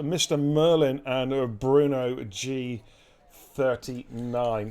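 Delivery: race announcer roll call. Acted. Streamer introducing tonight's racers to viewers, announcer style. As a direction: announce the starting lineup with big punched names.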